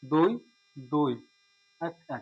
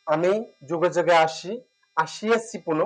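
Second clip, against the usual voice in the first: slow poem recitation. Shown as a demonstration. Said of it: "recites example poem line".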